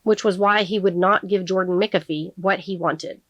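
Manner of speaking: measured audiobook reading with clear pauses; deliberate storytelling delivery; story narration. A narrator's reading. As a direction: read the novel aloud, phrase by phrase. Reads the novel aloud.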